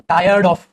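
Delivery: "tired" said loud and firm; stress on tired. Shown as a demonstration. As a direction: hit "tired" hard. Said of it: "example लिखवाया था".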